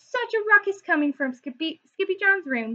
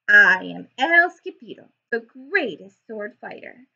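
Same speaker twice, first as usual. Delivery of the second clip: loud, grand announcement of himself; proud swordsman's boast; 2 semitones lower, 7 dB louder than usual. Acted. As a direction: boom out your own name like a hero. Hero boasts his name.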